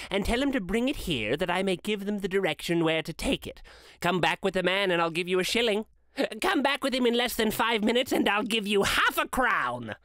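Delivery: excited Scrooge, pitched a little up; eager Scrooge. Acted. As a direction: urge the boy on with mounting eagerness.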